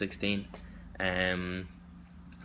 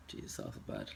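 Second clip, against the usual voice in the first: a muttered self-reproach under the breath; whispered aside; 11 semitones lower, 11 dB quieter than usual. Real, not acted. Stuck during her video CV, whispering to herself. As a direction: breathe it low to yourself, much softer.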